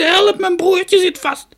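very high, loud, slow yell; desperate drawn-out call; shouted plea for help. A narrator's reading. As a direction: stretch the words out to carry far. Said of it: "riep ze".

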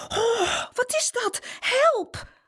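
a startled granny crying for help; granny frightened by the birds flying out; startled old woman. A narrator's reading. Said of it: "Omaatje schrok ervan".

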